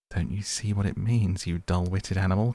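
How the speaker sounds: mildly impatient scolding. Acted. Rat scolds the mole for not seeing it, impatient. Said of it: "cried the rat impatiently".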